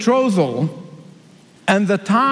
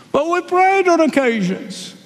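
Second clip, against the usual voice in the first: pleading foolish ones; 9 semitones higher than usual. Acted.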